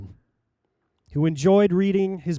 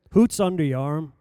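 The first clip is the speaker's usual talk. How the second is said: put-on light northern English accent on Hoot's, said like hoots; mimicking an old British preacher's accent, Hoot's for what's; lightly imitated British accent. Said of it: "That meant in his British accent".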